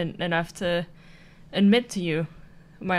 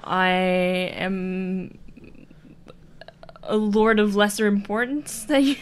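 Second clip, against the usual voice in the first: whispered confession; slower than usual. Acted. Confessing a lie in character.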